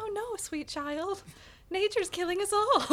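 storybook narrator. Retold or imitated. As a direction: read it like a bedtime tale. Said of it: "almost like a storybook voice".

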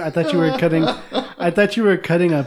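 laughing. Real, not acted. Embarrassed, caught on mic.

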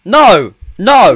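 firm, falling cries of refusal; emphatic, scolding no; coach-like telling-off. Real, not acted. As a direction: shut it down like a coach. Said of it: "you sounded like me when I'm coaching then".

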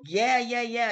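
loud, high cheering yeah; crowd raving. Retold or imitated. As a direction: hype it up like an excited crowd.

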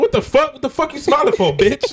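imitating angry guy. Quoting comedian's angry line.

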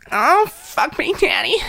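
high breathy sultry moan; sex voice. Pretend. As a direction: moan it in a sexy voice.

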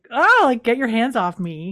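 hammed-up flinch at an unwanted touch; startled recoil. Booth recoiling from Cam's touch, a mock startled yelp. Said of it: "He freaks out".

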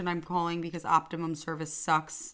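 flat, bored phone-rep monotone; customer service voice. Retold or imitated. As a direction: read it like a weary call-center agent. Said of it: "You sound like you're on a customer service call".

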